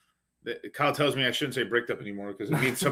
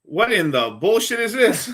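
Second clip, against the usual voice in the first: laughing disbelief; 8 semitones higher, 5 dB louder, slower than usual. Real, not acted. Streamer reacting to a clip.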